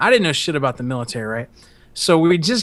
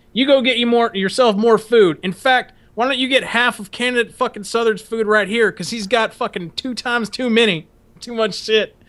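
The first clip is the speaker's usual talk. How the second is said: a touch higher, ordering voice; drill instructor; 6 semitones higher than usual. Retold or imitated. Drill instructor ordering another recruit to take more food. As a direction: command it like a sergeant. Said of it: "He's like".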